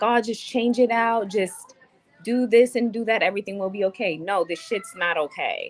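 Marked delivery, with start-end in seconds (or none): 0.0-4.2 higher, dismissive brush-off voice; mocking the rental guy. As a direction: mimic the guy waving off her problem. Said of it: "And he was like".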